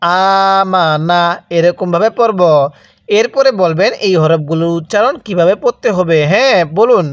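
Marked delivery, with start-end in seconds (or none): 0.0-1.2 আমানা held slowly, each vowel stretched one alif; slow tajweed elongation of আমানা; drawn-out recitation. Shown as a demonstration. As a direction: chant আমানা slowly for learners to copy. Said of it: "আরেকবার আমার সাথে পড়ুন".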